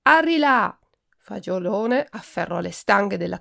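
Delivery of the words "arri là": high, loud carter's call; shout. A narrator's reading. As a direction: yell to get the cart moving. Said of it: "poi gridò".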